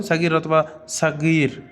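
সাগির said two ways, the last drawn out; common pronunciations. Shown as a demonstration. Teacher gives learners both ways of saying সাগির, demonstrating pronunciation. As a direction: say সাগির, then lengthen its second vowel. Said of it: "সাগির বেশিরভাগ বলা হয়".

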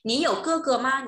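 "Nǐ you ge ge ma?" said high and loud, clearly stressed on "you"; emphatic model question. Shown as a demonstration. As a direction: pitch it up and push it out like a teacher's model. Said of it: "repeated model question".

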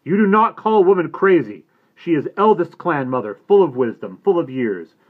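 loud, high furious roar. A narrator's reading. Little Bear scolding the boy for disrespect, furious roar. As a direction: bellow the scolding. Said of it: "roared Little Bear".

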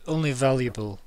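slow, deliberate merchant figure with weighty pauses; enigmatic shopkeeper. Acted. Game master voices a shopkeeper musing on money, slow and enigmatic. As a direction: draw out each phrase as a cryptic shopkeeper.

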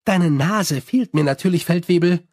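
sweet smile. Acted. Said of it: "mit einem süßen Lächeln".

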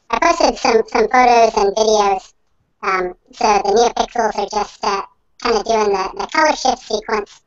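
elf voice. Real, not acted. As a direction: sounds like he inhaled helium. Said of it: "your microphone, uh, has an interesting effect on it".

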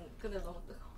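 뜨거운 음식을 입에 문 채 작게; 입안 가득 뜨거워하며 웅얼; mouth full of hot food. Real, not acted. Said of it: "너무 뜨겁다". (뜨거운 음식 입에 물고 말하기)

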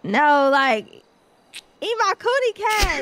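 slow, high, laughing through the words; giggling as you say it; laughing joke line. Real, not acted. Joking crude line, laughing.

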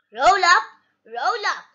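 stallholder's call, loud first then easing; crying out. Acted. Miss Rabbit drumming up customers at the fair stall, crying out. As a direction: call the crowd in, first call loudest. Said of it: "cries Miss Rabbit".

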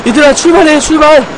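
high loud hype calls; excited shouting. Real, not acted. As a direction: cheer the ride on. Hyping the coaster riders.

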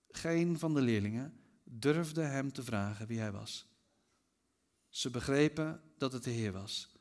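solemn scripture reading. A narrator's reading. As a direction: read it gently and reverently. Reads scripture aloud solemnly.

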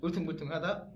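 rising 울퉁불퉁하다 in a foreigner's Korean; English accent Korean. Retold or imitated. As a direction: say 울퉁불퉁하다 with a high, loud rising end. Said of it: "외국인이 발음을".

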